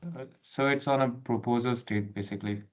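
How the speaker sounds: thin call audio, far from mic; on a video call. Real, not acted. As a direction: remote caller over a laptop mic. Remote participant on meeting call.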